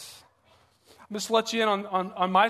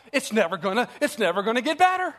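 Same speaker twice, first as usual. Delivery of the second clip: mock despair; 3 semitones higher than usual. Acting out worry spiralling up.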